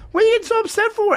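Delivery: high, fast retold protest; incredulous calling-out. Calling after the guy walking away upset, retold incredulous protest. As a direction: call after him in quick disbelief.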